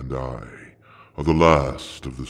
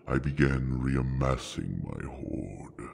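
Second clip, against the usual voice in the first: whispered aside; 7 dB quieter than usual. Acted. Dragon trails into secrecy.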